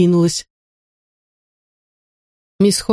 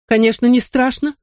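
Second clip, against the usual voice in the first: haughty reply, higher pitch; proud; 8 semitones higher than usual. A narrator's reading. Woman boasting she isn't afraid of witches, proudly. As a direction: answer proudly, chin up. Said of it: "гордо ответила мисс Ходж".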